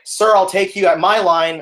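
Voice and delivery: theater voice. Retold or imitated. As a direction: call out over the noise of a crowd. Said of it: "habit of talking like that".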